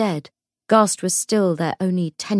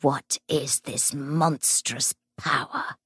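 seething spirit; 3 semitones lower, 5 dB quieter, slower than usual. Acted. Ghost figure speaks.

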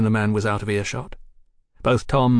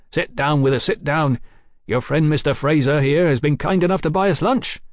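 put-on slightly raised, lively young man's voice; eager young brother; 5 semitones higher, 4 dB louder than usual. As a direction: welcome your brother to the table eagerly.

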